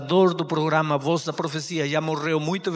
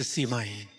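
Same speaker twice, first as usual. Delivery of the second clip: softer, lower meek reply; a boy's small answer to his mother; timid yes; 6 semitones lower, 9 dB quieter than usual. Acted. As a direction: shrink before the scolding. Boy answers scolding mother.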